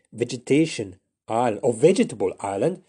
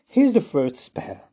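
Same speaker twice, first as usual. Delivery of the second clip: reluctant; 5 semitones higher, 6 dB louder, slower than usual. Acted. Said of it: "reluctantly agreed".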